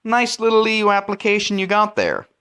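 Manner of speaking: mobster threat, high and smooth; a mafia shakedown, sweetly; silky menace. Retold or imitated. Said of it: "then Greece would say".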